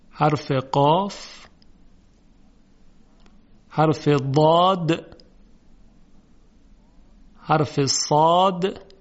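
slow, deliberate letter by letter; slow dictation. Shown as a demonstration. Teacher listing the seven letters slowly for students. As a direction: spell each letter slowly for the class. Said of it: "به این ترتیب".

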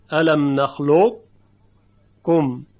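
الم نخلقکم very slow, heavy qaf colour kept before the kaf; partial assimilation. Shown as a demonstration. Teacher reciting الم نخلقکم to show partial assimilation. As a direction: recite الم نخلقکم slowly, keeping the thick qaf sound. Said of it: "اما مخرج قاف دیگه تلفظ نمیشه".

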